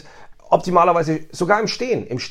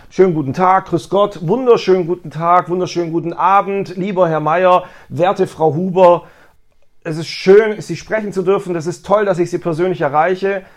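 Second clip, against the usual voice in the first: friendly phone greeting; 3 semitones higher, 4 dB louder than usual. Shown as a demonstration. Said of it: "so eine klassische Begrüßungsformel".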